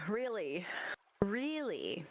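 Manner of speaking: flat disbelieving repeat; you can't be serious; incredulous. Acted. Maddie doubts the NPC's claim to be human, incredulous. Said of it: "really incredulous look on her face".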